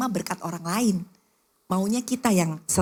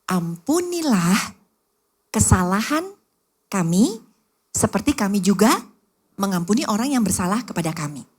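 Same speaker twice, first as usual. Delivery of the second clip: prayer recitation; 3 dB louder than usual. Acted.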